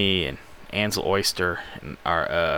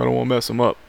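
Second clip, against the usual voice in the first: mock whiny protest, pitched up; worried drummer; 6 semitones higher, much faster than usual. Drummer refusing to hit harder, mock worried. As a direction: imitate a reluctant bandmate in a higher voice. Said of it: "He's like".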